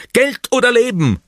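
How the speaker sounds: very high pirate holdup cry; shouted demand. A narrator's reading. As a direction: call it out as a pirate's threat. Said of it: "ruft Püppi".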